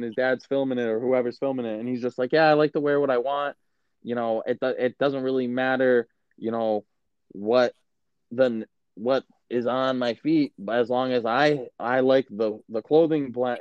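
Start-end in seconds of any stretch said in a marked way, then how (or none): 2.3-13.6 put-on little kid voice. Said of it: "I'm trying to do a little kid voice".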